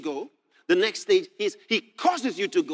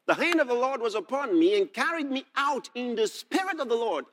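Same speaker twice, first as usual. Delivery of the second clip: higher, declaimed Bible verse; scripture reading; 4 semitones higher than usual. Acted. Preacher reads Ezekiel to the congregation, declaimed scripture reading.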